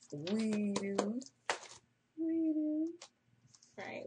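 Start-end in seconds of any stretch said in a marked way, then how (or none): 0.1-3.0 rising proud shout. Real, not acted. Proudly answering own question.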